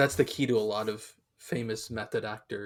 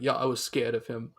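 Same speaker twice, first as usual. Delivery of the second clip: lightly attempted English actor impression; a hint of a famous British film star; Michael Caine. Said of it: "a great Michael Caine impression".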